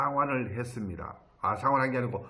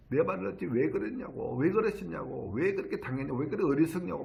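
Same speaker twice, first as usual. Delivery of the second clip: retold scolding; 4 semitones higher than usual. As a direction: fire off exasperated whys, imitating someone cross. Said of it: "막 화를 내더라고요". (화내며 나무라는 말투를 흉내 내며)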